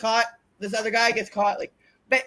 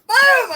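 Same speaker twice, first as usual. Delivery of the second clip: high, explosive boom; loud slap effect; 12 semitones higher, 9 dB louder than usual. Retold or imitated. Wrestler re-enacts slapping opponent, loud high boom. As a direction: shout the impact of a slap.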